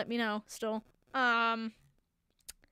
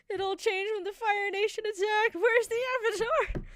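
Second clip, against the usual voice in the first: higher, dramatic trailer-narrator voice; mock Avatar intro narrator; 8 semitones higher than usual. Reciting the cartoon's intro to viewers, hammed-up narrator. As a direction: ham up the show's opening lines.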